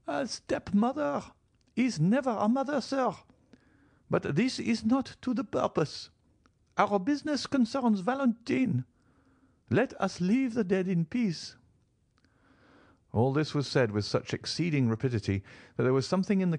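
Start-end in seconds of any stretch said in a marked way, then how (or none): 0.1-11.6 put-on a high, cold old grandmother's rebuke; high old lady, stern and slow. Old marchioness scolding her son-in-law, high and stern. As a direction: make each word a reproach, pitched high.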